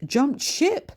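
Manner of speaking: put-on mildly surprised old lady; puzzled echo. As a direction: repeat it in disbelief. Bertha puzzled question.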